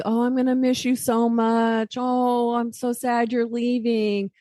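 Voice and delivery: high, clingy sad goodbye; tearful goodbye. Retold or imitated. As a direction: gush over missing the child. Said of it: "kind of do".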